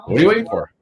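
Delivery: mock posh English accent, pitched high; high, put-on English voice. Quoting Stu in a put-on English accent. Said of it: "In my best European accent, English accent".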